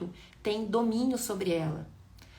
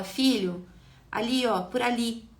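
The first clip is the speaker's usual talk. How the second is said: loud but patient guidance; gentle guiding father; 3 semitones higher, 3 dB louder, slower than usual. Shown as a demonstration. Affectionate father gently guiding his son, patient. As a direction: point the way kindly, like a caring dad. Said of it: "o pai afetivo, mas que orienta".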